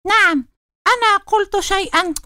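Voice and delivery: high, eager little call. Acted. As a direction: call out from the hiding place. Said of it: "هتفت فأرة". (بهتاف متحمس)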